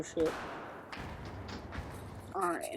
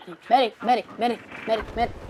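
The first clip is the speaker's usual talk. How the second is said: man down shout; 4 semitones higher, 3 dB louder, faster than usual. Real, not acted. Calling for medic in game.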